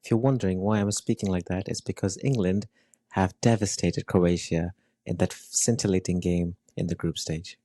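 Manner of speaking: a lightly put-on British accent, a touch fast at the start; attempted British accent. Host opens the football show in an amateur British accent. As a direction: play at an English pundit in a mild British accent. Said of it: "Was that really a British accent?".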